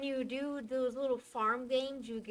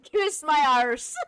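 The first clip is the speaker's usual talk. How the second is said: mock British accent; 3 semitones higher, 11 dB louder, slower than usual. Shown as a demonstration. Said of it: "stereotypical, but it works".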